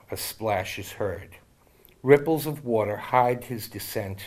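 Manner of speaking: measured, gentle poem recital; poem reading. Acted. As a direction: read it like a heartfelt poem. Reads his friend's poem aloud.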